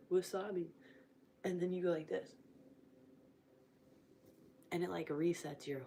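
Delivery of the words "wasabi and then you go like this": talking with tongue pulled out; holding tongue with fingers. Real, not acted. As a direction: speak while gripping your tongue. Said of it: "you grab your tongue and you twist it like this".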